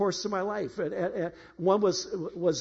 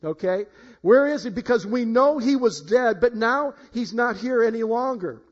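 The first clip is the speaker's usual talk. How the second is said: bewildered women; 4 semitones higher, 6 dB louder than usual. Retold or imitated. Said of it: "and they're thinking".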